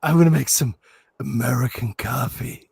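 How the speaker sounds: a hint of a smooth German seducer; imitating Werner. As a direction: sweet-talk him in a mock German voice. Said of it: "It's the way he says".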